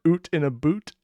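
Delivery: joking Canadian vowels on oot and boot; mock Canadian accent. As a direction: play up a Canadian accent for the pun. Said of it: "I'd apologize to all Canadians".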